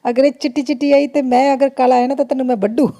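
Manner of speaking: imitating husband's Punjabi, lightly; a mild Punjabi-accented mock threat: अगर ये चिट्टी चिट्टी आई; teasing Punjabi scolding, lightly voiced. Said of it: "Punjabi बोल रहे".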